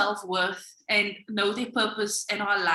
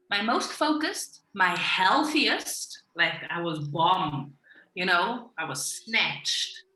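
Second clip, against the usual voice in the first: savoring it; 3 semitones lower, slower than usual. Real, not acted. Savouring her best self.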